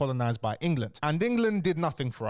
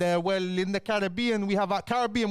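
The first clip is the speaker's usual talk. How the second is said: higher, hammed-up French caricature; lightly put-on foreign voice, pitched up; mock France voice; 6 semitones higher than usual. France offering up the Caribbean to Germany, mock higher voice. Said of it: "They said".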